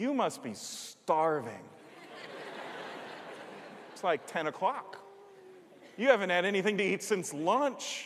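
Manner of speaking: kindest, sweet, breathy whisper. Retelling what his wife said to him, imitating her kindest wife voice. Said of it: "with the kindest wife voice in the world".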